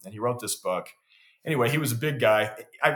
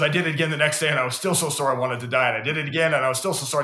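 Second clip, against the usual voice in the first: louder, higher imitation of a worn-out complainer; exasperated retelling; 4 semitones higher, 5 dB louder, faster than usual. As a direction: act out mounting exasperation, pushing the volume up. Friend's mounting complaint, repeated louder.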